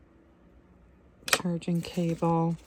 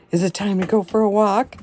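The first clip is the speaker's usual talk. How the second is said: fast, louder, singsong question to the dog; pet-talk excitement; 4 dB louder, faster than usual. Real, not acted. Asking her dog if it is walk time, excited and fast. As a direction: hype the dog up.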